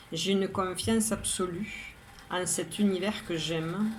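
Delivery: measured, even poem reading with pauses between lines; poem recitation. Acted. Poet reads today's poem to listeners, measured recitation. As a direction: recite it evenly, line by line, each phrase set apart. Rereads the poem a third time.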